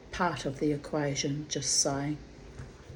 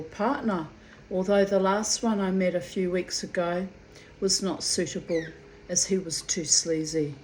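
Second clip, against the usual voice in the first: reading aloud. Acted. Reads out a written entry.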